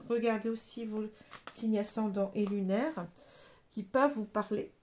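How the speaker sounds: talking through hiccups; holding back hiccups mid-sentence; suppressing hiccups. Real, not acted. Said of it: "Pardon, j'ai le hoquet".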